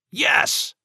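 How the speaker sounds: high, loud single shout; defiant yell. Acted. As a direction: bark the yes back at him. Father yells defiant answer.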